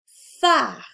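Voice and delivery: PHARE called loud, with lengthened f and r; dictation. Shown as a demonstration. Teacher dictates the first word, emphatic dictation. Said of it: "nous allons faire une dictée de mots".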